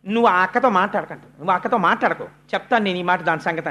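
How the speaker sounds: low, quick protective scolding; mildly indignant mother. Acted. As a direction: take the child's side with a touch of pique. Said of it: "చిన్న అక్కసు వస్తుంది అమ్మకి".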